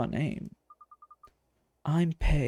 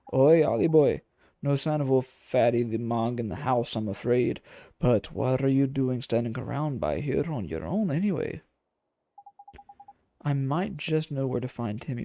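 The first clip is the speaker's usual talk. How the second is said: a lower, hearty working man's call; gruff friendly local man; 4 semitones lower than usual. Acted. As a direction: bellow a cheeky greeting, then chat. Game figure greets Oliver.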